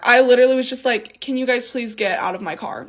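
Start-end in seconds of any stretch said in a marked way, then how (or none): 1.2-2.8 soft, restrained polite request; calm and nice. Retold or imitated. Woman asking the pair to leave her car, calm and polite. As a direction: ask softly, keeping it calm and civil. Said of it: "I was being very calm and collective and nice".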